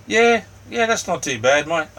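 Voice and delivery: high, loud burst of yeahs; high, loud excited yeah to a viewer; excited agreement. Real, not acted. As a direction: jump in eagerly to agree. Reacting eagerly to chat comment.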